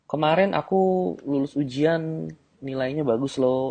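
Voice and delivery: girl bragging about her grades, lightly voiced; mock bragging girl. Shown as a demonstration. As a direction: brag about your grades.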